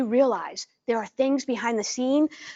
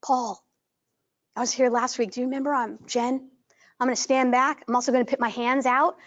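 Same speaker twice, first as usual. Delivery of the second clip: gentle, careful approach. Shown as a demonstration. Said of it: "a little bit more like this".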